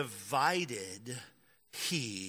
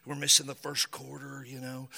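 put-on much softer sulky teen whine; petulant teenager; 3 semitones lower, 4 dB quieter than usual. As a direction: mutter it like a bored teenager stuck at a chore. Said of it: "he's a petulant teenager".

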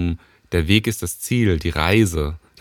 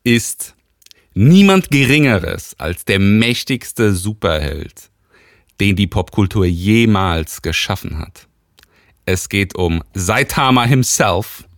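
loud, drawn-out ring announcer intro; boxing ring announcer; 6 dB louder, slower than usual. Pretend. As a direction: call it like a title fight. Boxing ring intro of his fighter.

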